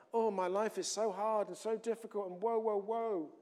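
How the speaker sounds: playful woe-is-me grumble; mock moaning. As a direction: moan it like a sorry self-pitier. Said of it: "slipping back into that moaning place".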